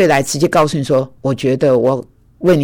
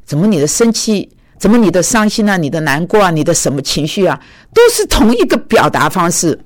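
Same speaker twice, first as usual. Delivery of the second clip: pointed remark; 4 semitones higher than usual. Retold or imitated. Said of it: "他说".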